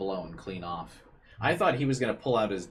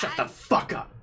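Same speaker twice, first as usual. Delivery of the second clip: far higher, louder, raspy yell; enraged shout; 7 dB louder than usual. Acted. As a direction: tear into them, shut them up. Snapping back at interrupter.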